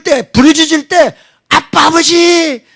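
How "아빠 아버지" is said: slow, high pleading cry; yearning call to God. Shown as a demonstration. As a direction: draw out each word calling to Father. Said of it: "이렇게 부르게 될 줄로".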